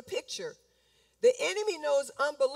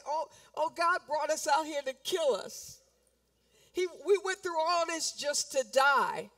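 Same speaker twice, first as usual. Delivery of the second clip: sarcastic. Retold or imitated. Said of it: "that's sarcastic".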